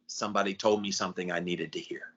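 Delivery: soft acted relief after a sigh; subdued, grateful realization; quiet realization. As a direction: let it sink in, softly.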